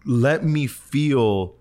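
slow, drawn-out retold plea; imitated pastor's slow, heartfelt appeal; earnest pleading. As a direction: plead with God, leaning on each word. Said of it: "I am pleading God".

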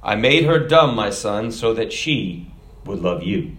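booming God voice. Acted. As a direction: deliver the punchline as a fatherly God, dropping at the end. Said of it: "God's booming voice came back".

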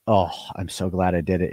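low, soft sigh of satisfaction; blissful relief. Retold or imitated. Owner savoring his new Lexus, low blissful sigh. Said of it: "It's orgasmic".

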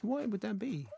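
soft, high Australian upward inflection; mock Australian. Shown as a demonstration. Host mimicking co-host's Australian turn, mock Australian rise. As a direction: tease with a rising Australian lilt. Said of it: "I've gone all Australian".

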